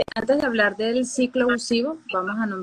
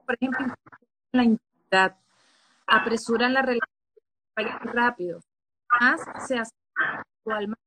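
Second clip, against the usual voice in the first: choppy call audio. Real, not acted. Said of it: "Yo te escucho cortado".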